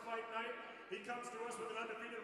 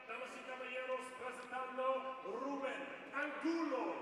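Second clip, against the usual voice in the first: lucha libre announcer. Acted. Spanish ring intro for Colombian.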